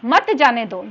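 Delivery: "मत जाने दो" as one group; pause before मत. Shown as a demonstration. Teacher showing the forbidding meaning, "मत" joined to "जाने दो". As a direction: start afresh on "मत", falling through "जाने दो". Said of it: "हमने थोड़ा सा ठहराव लिया".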